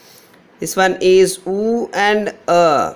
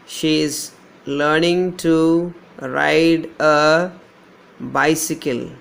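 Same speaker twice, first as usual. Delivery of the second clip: slow and deliberate, every word spaced out; slow dictation. Shown as a demonstration. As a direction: dictate it slowly to the class. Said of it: "Here we don't have a diphthong".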